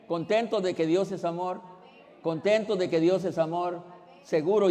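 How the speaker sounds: ordinary talk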